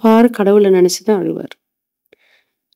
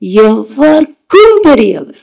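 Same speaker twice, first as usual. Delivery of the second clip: slow reverent verse; 2 semitones higher, slower than usual. Acted. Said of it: "அவர் யாரு?".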